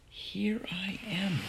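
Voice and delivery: soft, slow, high whisper; inward thought. A narrator's reading. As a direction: breathe it slowly, as a private realisation. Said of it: "thought Flora".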